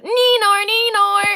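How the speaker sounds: loud, high Australian "Neenor, Neenor"; Australian accent. Pretend. Greeting a super chatter in a high Australian accent. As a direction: sing out the name in a high Aussie twang. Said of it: "I have to say it with an Australian accent".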